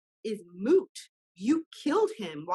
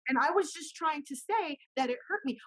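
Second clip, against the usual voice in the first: put-on hurt child pleading; 5 semitones higher than usual. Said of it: "came over and said".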